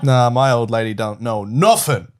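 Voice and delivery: slow dopey Boston mob muscle; dumb Boston voice. Acted. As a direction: drawl it like a dumb Boston lug. Terrible Boston accents.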